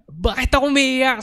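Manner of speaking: high, fast teary imitation of the brother; brother in tears. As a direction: blurt it out through tears, bewildered. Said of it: "tumutuloy yung luha niya". (umiiyak na kuya, mabilis at mataas)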